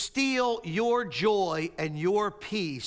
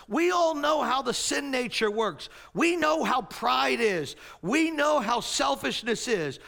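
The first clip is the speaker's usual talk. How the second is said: Jesus exhorting; 5 semitones higher than usual. Acted. Jesus urging his disciples, raised and earnest. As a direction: plead with the guys as Jesus, raised voice. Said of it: "Jesus says".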